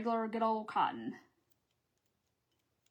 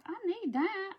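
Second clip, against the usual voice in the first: mock pleading friend; 9 semitones higher than usual. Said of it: "She's going".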